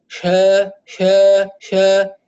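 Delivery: شا with a thin, weak sh; weak sheen. Shown as a demonstration. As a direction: let the sh in شا go faint. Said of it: "ضعيفة". (شين ضعيفة)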